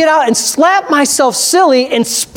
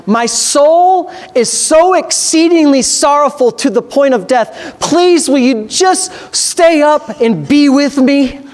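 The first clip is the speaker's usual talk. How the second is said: pleading Jesus; 3 semitones higher, slower than usual. Acted. Preacher voicing Jesus pleading with disciples.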